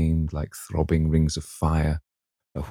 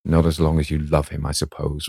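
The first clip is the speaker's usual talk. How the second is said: sullen. Acted. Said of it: "was the sullen answer".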